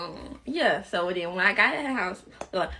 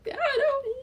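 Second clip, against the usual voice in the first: laughing it off; 7 dB louder than usual. Retold or imitated. Admitting to grandma she has no plan.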